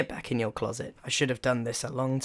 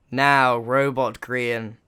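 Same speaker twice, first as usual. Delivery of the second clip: commanding; 6 dB louder, slower than usual. Acted. Inventor addresses the robot.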